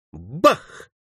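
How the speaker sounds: quick punchy bang; imitated gunshot. A narrator's reading. Narrator sounds out the eager boy's shot, imitated bang. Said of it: "так же азартно выстрелил Фанфан".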